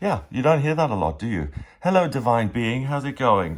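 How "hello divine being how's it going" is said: clumsy, fumbling, awkward, inarticulate delivery. Re-enacting how the speaker once greeted someone, acting out an awkward greeting. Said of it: "in a really awkward, inarticulate way, like I did".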